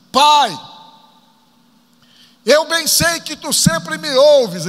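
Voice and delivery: loud, high prayer cried out to the Father; oração em voz alta. Retold or imitated. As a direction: call out to God, slow and high, projecting. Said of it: "dizendo assim". (oração bradada, alta e pausada)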